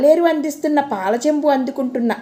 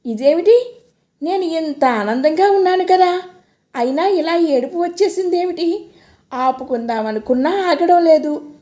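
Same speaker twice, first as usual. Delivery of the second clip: tearful; 4 semitones higher than usual. Acted. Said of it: "పెద్దగా ఏడుపు వచ్చేసింది".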